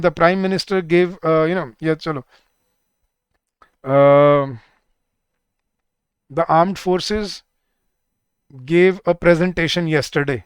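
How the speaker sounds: very slow, word by word; slow dictation. Shown as a demonstration. Teacher dictating an example sentence to students. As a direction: dictate each word slowly. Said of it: "जैसे मैं बोलता हूँ".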